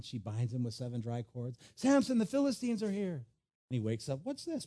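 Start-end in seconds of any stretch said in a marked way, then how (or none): 1.7-3.2 high-pitched mock alarm; Delilah. Delilah waking Samson to a false threat, high mock alarm. 4.2-4.7 high, soft puzzled squeak; lightly acted surprise on waking; mock surprise. Samson waking up bound in cords, high mock surprise.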